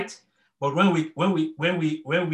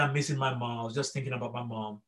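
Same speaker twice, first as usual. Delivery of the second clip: much softer, broken-down murmur; quiet grief; 4 semitones lower, 9 dB quieter than usual. Retold or imitated. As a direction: retell it hushed, as if still hurting. Grieving father answers daughter.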